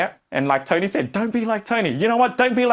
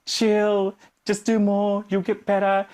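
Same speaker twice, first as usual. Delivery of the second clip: calm coach; 3 semitones higher, slower than usual. Retold or imitated. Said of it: "Your coach tells you".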